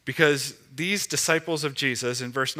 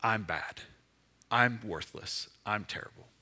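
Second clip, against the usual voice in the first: mock self-loathing; 5 semitones lower, 6 dB quieter than usual. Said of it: "it's not now".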